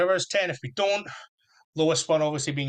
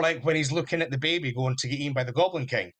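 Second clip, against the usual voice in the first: ordinary talk, nothing marked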